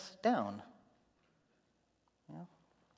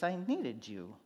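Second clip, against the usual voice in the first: fading softer and slower to a hurt hush; grieving reproach; 4 semitones lower, 6 dB quieter than usual. Retold or imitated. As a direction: let it trail off in quiet hurt. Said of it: "I hear Martha saying".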